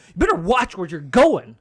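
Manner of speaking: loud mock warning; heated. Gym guy warning him to watch out, mock heated. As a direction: imitate a gym bro getting worked up. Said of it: "He's getting heated at this point".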